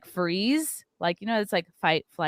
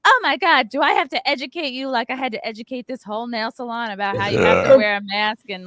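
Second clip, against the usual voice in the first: high, loud, fast lecturing; hammed-up entitled rant; preachy Karen; 4 semitones higher, 4 dB louder than usual. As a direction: talk down to her like a scolding know-it-all. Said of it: "She gets, like, right in my face".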